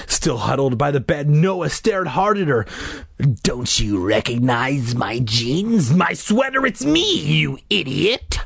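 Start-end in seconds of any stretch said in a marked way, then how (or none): 3.4-8.4 gruff, exasperated declaration. Acted. Masked sister to her scared brother, gruff and exasperated. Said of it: "Carly Beth declared in a gruff voice".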